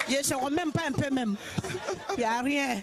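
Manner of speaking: talking through laughter. Real, not acted. Laughing about her accent.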